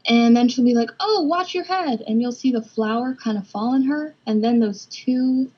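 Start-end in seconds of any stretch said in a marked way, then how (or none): 1.0-2.0 sudden warning. Acted. May warning Ava about falling flour.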